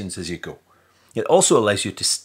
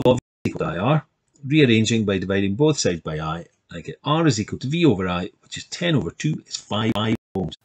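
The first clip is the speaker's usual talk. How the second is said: rushed then dragged playback; speeding up and slowing. Real, not acted. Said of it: "making it sound like I'm speeding up and slowing down".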